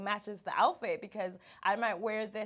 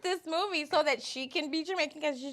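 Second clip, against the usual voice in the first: exasperated protest; 6 semitones higher, 7 dB louder than usual. Retold or imitated. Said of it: "I was like".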